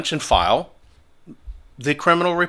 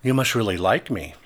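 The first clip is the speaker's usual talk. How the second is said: lower, softer mocking jab; mocking taunt; 4 semitones lower, 6 dB quieter than usual. To a protester in his face, low mocking taunt. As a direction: needle him with a low, soft sneer. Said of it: "And I just started taunting him".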